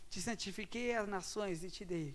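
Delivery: slow, solemn Bible reading; scripture reading. Acted. Preacher reading Jeremiah slowly to the congregation. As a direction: read each word slowly, with weight.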